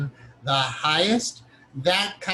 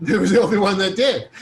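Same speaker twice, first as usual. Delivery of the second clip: laughing; 3 semitones higher, 6 dB louder than usual. Real, not acted.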